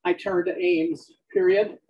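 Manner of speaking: dictating text with spoken punctuation; measured dictation to a recorder, words spaced out. Acted. Dictates novel aloud on treadmill.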